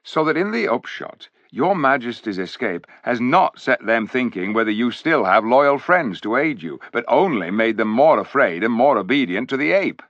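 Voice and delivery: a hint of a gruff loyal dwarf, brisk; lightly voiced dwarf; dwarf storyteller. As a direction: tell the king the bad news as a plain-spoken dwarf. Dwarf concludes report.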